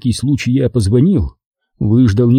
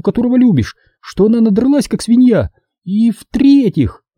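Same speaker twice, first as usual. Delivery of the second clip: high-pitched tipsy woman arguing point by point; Caroline, tipsy and offended; 10 semitones higher than usual. Acted. Drunk woman defending herself to her best friend, high and offended. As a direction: protest in a high, offended character voice.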